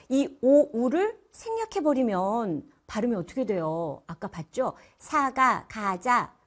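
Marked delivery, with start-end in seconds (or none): 5.0-6.3 "사가", "가자" with the w left out; childish dropped glide. Shown as a demonstration. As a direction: say "사가, 가자" like immature speech, plain a for wa. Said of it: "어린 말투가 됩니다".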